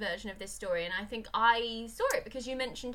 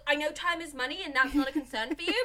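builds to a much higher, louder shout; exasperated plea; 5 semitones higher, 10 dB louder than usual. Retold or imitated. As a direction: lose patience and yell hurry up. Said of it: "you're like".

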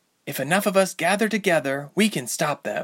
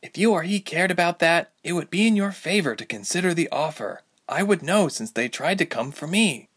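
higher insistent heroine; 6 semitones higher than usual. A narrator's reading. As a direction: press the point, insisting. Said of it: "Ilse insisted".

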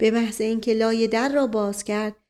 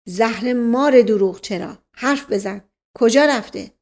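impatient outburst cutting someone off; loud flare of irritation; exasperated; 5 dB louder than usual. Acted. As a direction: demand an answer angrily. Master cuts off slow servant.

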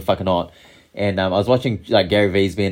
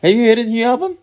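higher and louder, repeated clearly; 13 semitones higher, 5 dB louder, faster than usual. Real, not acted. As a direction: repeat it so they hear.

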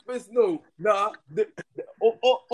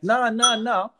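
higher-pitched mock protest; acted refusal; 6 semitones higher, slower than usual. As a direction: cut in with an indignant objection. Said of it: "and he's like".

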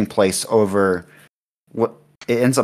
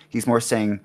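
ordinary talk, nothing marked

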